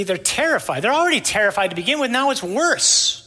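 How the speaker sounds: mounting alarm. Retold or imitated. Disciples' mounting terror in the story.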